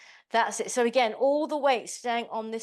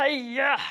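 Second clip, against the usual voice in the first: a mock Miss Piggy hiya on the kick; playful karate shout, lightly done; Miss Piggy karate cry; 3 semitones higher, 3 dB louder than usual. Instructor mimics Miss Piggy for her class, mock karate cry. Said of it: "Like Miss Piggy".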